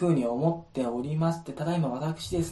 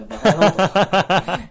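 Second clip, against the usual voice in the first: loud, slow angry yell; 5 semitones higher, 11 dB louder, much slower than usual. Retold or imitated. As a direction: bellow it like a furious boss. Imagined scolding over the fireworks.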